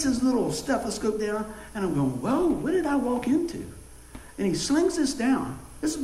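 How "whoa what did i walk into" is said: mock alarm. Retold alarm at doctor.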